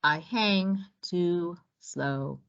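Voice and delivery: put-on low and slow, a sleepy old turtle; unhurried low turtle; slow tortoise voice. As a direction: drag each word like a tired tortoise. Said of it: "said Tortuga".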